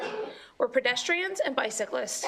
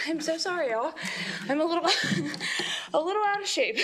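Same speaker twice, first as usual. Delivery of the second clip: breathless laugh, pitch jumping higher; laughing at herself; 5 semitones higher, faster than usual. Real, not acted. Witness joking to the committee about being out of shape, laughing. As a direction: laugh it off while still winded.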